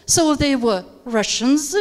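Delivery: "Russians" rises as an unfinished list item; rising list tone. Shown as a demonstration. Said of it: "rising tone".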